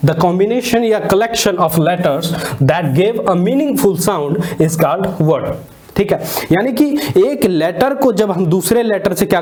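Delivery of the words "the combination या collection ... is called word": very slow, every word spaced out for note-taking; dictation pace. Shown as a demonstration. Teacher dictating the definition of a word, very slowly. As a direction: read the definition out word by word so students can write. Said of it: "slow dictation of a definition".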